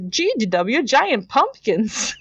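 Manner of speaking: mock-thrilled sidekick gushing; excited. Launchpad thrilled by the pumpkin news, high drawn-out mock excitement. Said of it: "is very excited about this".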